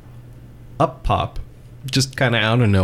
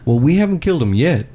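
high, quick tough-guy boast; boastful character voice; 6 semitones higher, faster than usual. Acted. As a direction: brag like a dim brawler.

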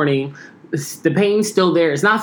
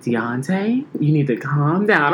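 softer, lower soothing mom voice; soft calm mom; 3 semitones lower than usual. Retold or imitated. Mom on the phone calming down her panicked son. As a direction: talk him down gently like a calm mother. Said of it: "speaking to me like this, really soft way".

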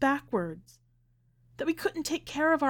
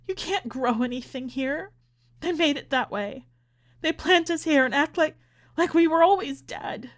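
high-pitched, desperate insistence; anguished plea; 7 semitones higher than usual. A narrator's reading. Grieving mother pleads, upset, with husband.

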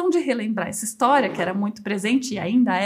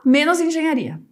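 lightly voiced dad, louder and laughing; mock fatherly voice; 5 dB louder than usual. Daughter mimicking her father's teasing support, mock dad voice. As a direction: play the dad who backs everything but engineering.

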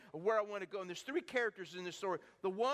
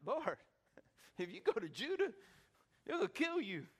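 protesting disciples. Acted. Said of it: "And they're like".

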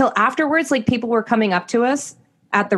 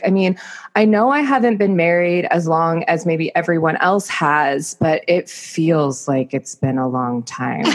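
lower, lightly voiced husband, slowing at the end; imitated husband's speech; 4 semitones lower than usual. Wife retelling husband's wedding speech, low weary imitation. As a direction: let it drag lower and slower, mimicking him. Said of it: "and he said it in this way".

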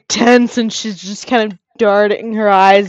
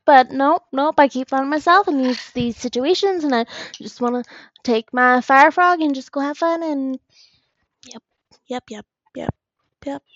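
put-on chirpy fourteen-year-old; 2 semitones higher than usual. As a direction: play the innocent kid who just wants fun. Player voices young Talissa.

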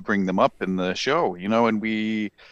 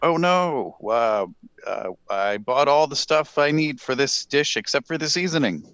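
lightly attempted Jamaican accent, higher at the start; 4 semitones higher than usual. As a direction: have a half-hearted go at a Jamaican accent. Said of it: "in your best Jamaican voice".

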